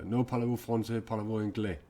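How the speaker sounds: hammed-up loud "No parlez-vous français"; mock French reply. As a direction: tease the viewer in bad French. Jokingly answering a French viewer.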